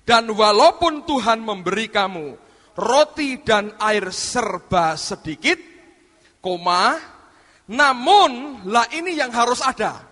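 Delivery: slow, loud Bible reading; emphatic scripture reading. Acted. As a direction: proclaim the verse deliberately. (pembacaan ayat yang tegas dan lantang)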